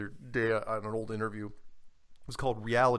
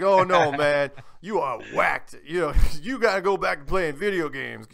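loud, hammed-up imitation of a Black American caller; badly faked Black American voice, heckling loudly; terrible Black American impersonation; 3 semitones higher, 8 dB louder than usual. Radio caller heckling the flat earther, hammed-up Black American impersonation. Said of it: "I'm doing a terrible black impersonation here".

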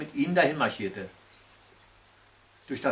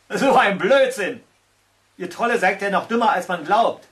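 scornful; 4 semitones higher, 6 dB louder than usual. A narrator's reading. Slug scolding the trolls for nonsense, scornful.

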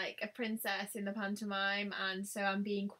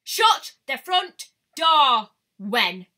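loud, higher, slow Shut the front door!; shocked shout; 3 semitones higher, 16 dB louder, much slower than usual. Real, not acted. Shouting at her viewers about glitter palettes, thrilled. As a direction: yell it in delighted shock. Same phrase, louder.

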